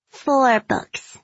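put-on high, bargaining child; little girl voice. A narrator's reading.

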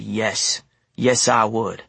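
firm, understated resolve; without hesitation. Acted. Narrator agrees to use the rifle for Ruby, unhesitating. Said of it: "there was no hesitation in my voice".

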